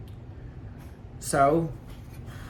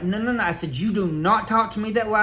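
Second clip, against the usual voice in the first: higher, firm retold pushback; flipped out; 5 semitones higher than usual. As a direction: set the limit hard. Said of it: "So I flipped out".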